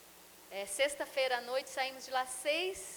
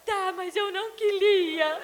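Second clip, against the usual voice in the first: put-on high, slow, teary child whine; mother imitating her son, teary and high; whining little boy; 5 semitones higher, 8 dB louder, slower than usual. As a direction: drag the words out like a sulking child. Mother voicing her son, near tears.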